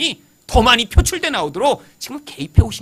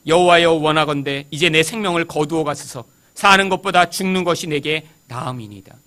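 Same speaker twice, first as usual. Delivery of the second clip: lower, even-pitched solemn recitation; scripture reading; 4 semitones lower, 3 dB louder than usual. Acted. Preacher reading Jonah's prayer to the congregation, solemn recitation.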